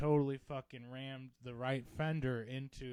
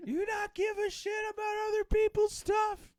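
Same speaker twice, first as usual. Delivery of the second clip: much higher, louder squeaky mock yell; mock furious shout; 8 dB louder than usual. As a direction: scream it in a hammed-up outraged high voice. Voicing the neighbor's rant.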